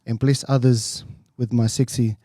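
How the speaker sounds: mate blessing the podcast in a tongue-in-cheek prayer; mock prayer. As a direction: lead the boys in a cheeky prayer.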